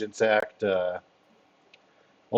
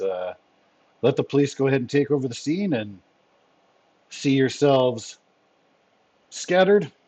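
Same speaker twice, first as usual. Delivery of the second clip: lightly voiced commander, formal and approving; measured orders with emphatic praise; Fury; 4 semitones higher than usual. Commander dismisses his agents with thanks, lightly voiced.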